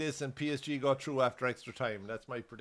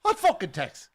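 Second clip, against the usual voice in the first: mock furious yell, much higher and louder; old husband yelling back at the cop; irate shout; 7 dB louder than usual. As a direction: bark it back in annoyance.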